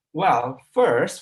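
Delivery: "first" stressed and set apart by a pause; "well, first" said deliberately, with pauses; pausing after a marker. Shown as a demonstration. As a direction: land on "first", then hold. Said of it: "And the pause".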